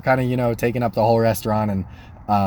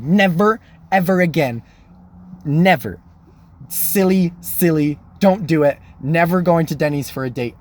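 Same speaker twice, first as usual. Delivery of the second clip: higher, punchy, separated declarations; emphatic vow; 4 semitones higher than usual. Retold or imitated. Man vowing off Denny's dates, emphatic. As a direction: swear it off with mock resolve. I made a commitment.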